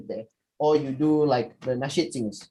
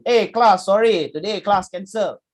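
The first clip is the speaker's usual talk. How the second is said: cheery mock lecturer, louder; lecturer announcing; 4 semitones higher, 5 dB louder than usual. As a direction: play the lecturer breaking news. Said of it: "your lecturer comes in".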